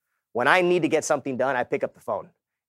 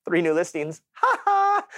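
gleeful laugh; 4 semitones higher, slower than usual. Retold or imitated. Waking to new listings.

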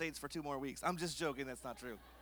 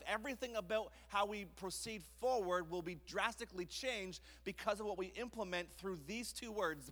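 ordinary delivery

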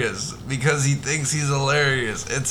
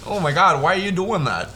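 Minnesota; 3 semitones higher than usual. Retold or imitated. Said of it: "Now you're to Minnesota".

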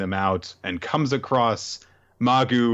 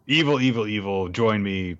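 mock villain. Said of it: "that kind of stuff".

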